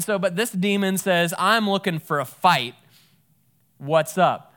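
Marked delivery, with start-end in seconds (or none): 1.4-4.5 cocky challenge. Retold or imitated. Demon picking a fight.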